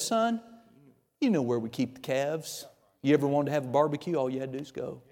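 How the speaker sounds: soft, low voice of an imitated father; gentle fatherly reminder. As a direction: quietly remind the son what is his. Father gently reminds older son.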